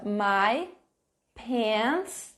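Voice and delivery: "My pants" said slowly, the a of "pants" drawn out; teacher's pronunciation demo. Shown as a demonstration. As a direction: model "pants" slowly for the class. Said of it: "Olha só a minha pronúncia".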